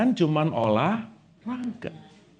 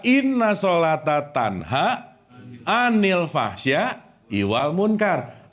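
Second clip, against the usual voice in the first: slow drawn-out Arabic phrase; slow recitation mid-sentence; 2 semitones lower, slower than usual. Acted. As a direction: intone the verse slowly. Recites verse again.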